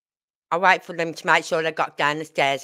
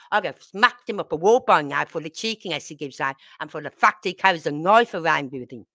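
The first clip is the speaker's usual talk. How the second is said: retold angry telling-off. Confronting father over block.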